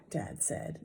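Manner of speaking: whispered narration tag. A narrator's reading. Narrator aside about Dad, whispered. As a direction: breathe it out, unvoiced.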